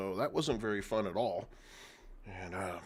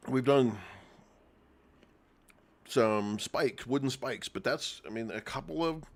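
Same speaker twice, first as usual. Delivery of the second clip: talking while chewing an apple; mouth full. Real, not acted. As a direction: speak around a mouthful of apple. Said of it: "And I'm choking on this apple".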